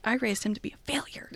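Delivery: whispered deadpan joke. Pretend. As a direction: whisper it like a confession. Voicing the mother, whispered joke.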